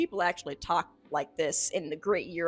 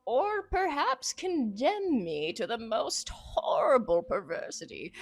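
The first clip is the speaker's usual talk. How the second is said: ominous narration; 3 semitones higher than usual. Acted. Reading the occult journal to viewers, ominous theatrical narration. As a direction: savor the dread in each phrase.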